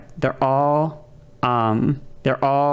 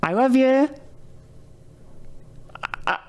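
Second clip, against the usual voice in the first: mock-pleading, pitched much higher and stammering; hammed-up clingy girlfriend begging; desperate declaration; 10 semitones higher than usual. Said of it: "she goes".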